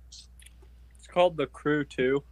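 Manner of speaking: talking through gummy bears; slow words round a mouthful of candy; mouth full. Real, not acted. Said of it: "I have gummy bears in my mouth".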